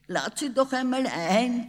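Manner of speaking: high, giggly father teasing; playful tease, pitched high; giggling. A narrator's reading. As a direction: say it through a suppressed giggle. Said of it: "kicherte der Vater".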